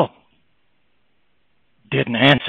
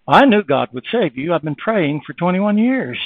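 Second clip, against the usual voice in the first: calm grandmother; 3 semitones higher than usual. Retold or imitated. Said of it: "looked at me very calmly".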